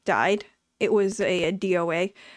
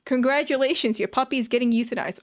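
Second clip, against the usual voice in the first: mock congratulations, pitched up at first; badly misjudged cheery announcement; misplaced cheer; 2 semitones higher than usual. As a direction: pretend to break good news. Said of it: "wrong mood".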